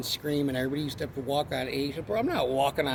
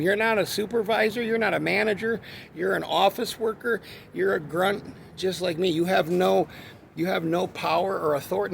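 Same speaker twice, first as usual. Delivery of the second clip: retold telling-off; 5 semitones higher, 4 dB louder than usual. Retold confrontation with coworker.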